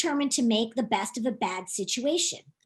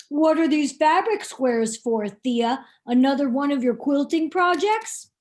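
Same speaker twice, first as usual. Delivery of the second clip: cashier voice; 3 dB louder than usual. Acted. Cashier Velma voiced in story.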